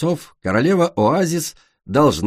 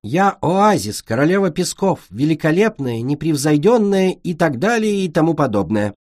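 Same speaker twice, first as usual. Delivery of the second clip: reluctant queen; 5 semitones higher than usual. Acted. Sunny reluctantly plays queen.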